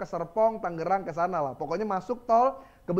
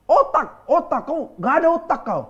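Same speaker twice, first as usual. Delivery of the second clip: mock angry yell of the driver, a bit louder; retold yell; 6 semitones higher, 5 dB louder than usual. Preacher imitating an angry driver yelling at him. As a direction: bark the insult like a road-rager. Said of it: "Dia berteriak, dia bilang begini".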